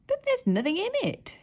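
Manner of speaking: high amazed protest; exclaimed. A narrator's reading. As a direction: sound baffled and let down. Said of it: "she exclaimed".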